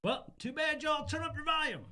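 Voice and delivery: squeaky high cartoon voice. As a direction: pipe it up high and silly. Mock reply to complaints.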